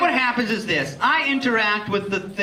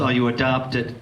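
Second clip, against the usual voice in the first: mock heckler; 9 semitones lower than usual. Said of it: "where people say".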